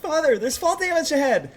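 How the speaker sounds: put-on high, squeaky warning boy; Atreus. Game son warning his father of danger, squeaky. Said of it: "Atreus comes out with a squeaky voice".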